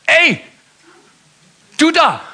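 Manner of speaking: high, loud cheeky parrot shout; frecher Papagei. Acted. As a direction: holler at him like a cheeky parrot. Papagei ruft wieder. (frecher Papagei, hoch und laut)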